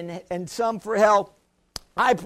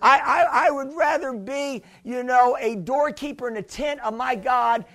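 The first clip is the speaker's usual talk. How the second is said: preaching at full force; 2 semitones higher than usual. Acted. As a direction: thunder it from the pulpit. Preaching scripture to congregation.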